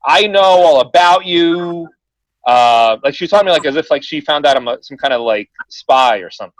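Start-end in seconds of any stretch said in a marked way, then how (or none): 0.1-1.9 nasty. Retold or imitated. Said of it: "so then she gets nasty".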